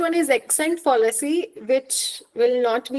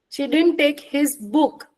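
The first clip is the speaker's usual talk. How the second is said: slower, weight landing on "book"; explanatory repeat with BOOK emphasized; stress on BOOK; 2 semitones higher, slower than usual. Shown as a demonstration. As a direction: lean on "book" to single it out. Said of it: "If I'm stressing the word book".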